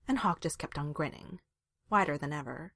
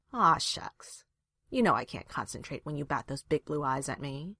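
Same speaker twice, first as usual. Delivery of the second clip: mock cooing. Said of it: "he cooed".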